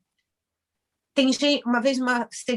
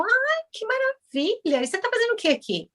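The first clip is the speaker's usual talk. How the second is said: mock American delight; 11 semitones higher than usual. Imitating an American client's delight, high and gushing. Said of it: "os americanos aqui às vezes falam assim".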